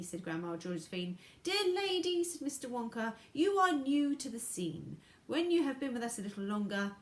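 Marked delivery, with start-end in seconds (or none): 1.4-6.9 high, loud, eccentric showman; high eccentric Wonka. A narrator's reading.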